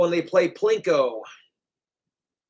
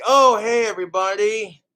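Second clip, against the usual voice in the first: higher, louder chirpy vlog greeting; mock cheerful vlogger; 4 semitones higher, 4 dB louder than usual. Imagining his ideal video, a hammed-up chirpy vlog intro. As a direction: play the bubbly youtuber saying hi. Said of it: "where it's just like".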